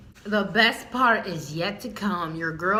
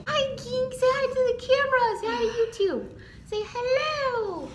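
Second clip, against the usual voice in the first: talking to a dog; 13 semitones higher, faster than usual. Real, not acted. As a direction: coo at the puppy, much higher.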